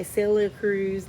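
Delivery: a singer's name in an accent that slips out; stray accent. Real, not acted. Reader keeps wanting to say the singer's name, in a stray accent. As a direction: let an odd accent take over the singer's name. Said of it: "like, again with the accent".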